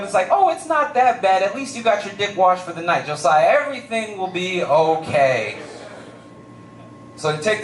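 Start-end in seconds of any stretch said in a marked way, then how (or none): 0.3-5.6 shoulder angel. Retold or imitated. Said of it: "the little angel popped up trying to cheer me up".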